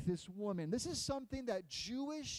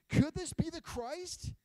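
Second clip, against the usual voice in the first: higher, louder hopeful question; wondering aloud; 7 semitones higher, 9 dB louder than usual. Acted. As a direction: wonder in amazement. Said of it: "she's wondering".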